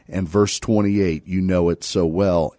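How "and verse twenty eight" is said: usual speaking voice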